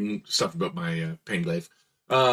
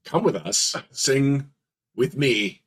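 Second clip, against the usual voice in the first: lightly voiced robot singalong; emotionally unaware; 2 semitones higher than usual. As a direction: sing along without feeling, word by word. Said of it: "role-playing the emotionally unaware".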